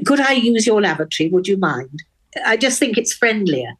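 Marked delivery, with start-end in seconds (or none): 0.1-2.0 quick, lightly clipped upper-class English request; posh English. Retold or imitated. Woman contrasting her Scottish trick with how her posh self would ask, quick mild posh English. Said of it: "more attractive than saying".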